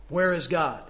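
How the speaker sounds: a touch of a big booming voice; firm booming question to a scared boy; booming pastor. A narrator's reading. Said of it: "a large man with a great booming voice".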